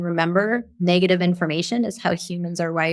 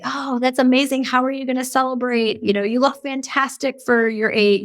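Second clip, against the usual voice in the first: active constructive reply; 5 semitones higher than usual. Retold or imitated. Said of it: "active constructive responding".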